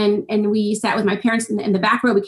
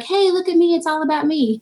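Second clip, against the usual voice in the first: mock show-off; 6 semitones higher than usual. Writer mocking a self-promoting post, mock show-off. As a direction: poke fun at a self-promoter. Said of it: "you don't want to be like".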